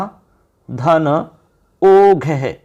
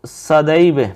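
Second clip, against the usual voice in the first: slow, emphatic; 2 semitones lower, much slower than usual. Shown as a demonstration. Teacher showing the joined word, drawn out slowly. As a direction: stretch out सदैव slowly, syllable by syllable. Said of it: "देखो".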